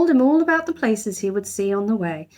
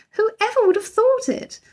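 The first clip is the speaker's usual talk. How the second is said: astonished gasp. A narrator's reading. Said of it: "gasped Missus Brown".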